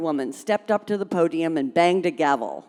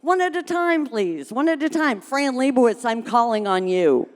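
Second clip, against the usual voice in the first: calling to order; 5 semitones higher than usual. Acted. Lily trying to regain order.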